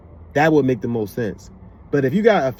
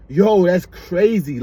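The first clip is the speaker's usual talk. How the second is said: drawn-out Jersey-style exclamation; slow it down with Jersey swagger; Jersey accent; 3 semitones higher, 4 dB louder, much slower than usual. Shown as a demonstration. Vlogger showing himself among Jersey people, Jersey accent. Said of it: "around a bunch of Jersey people".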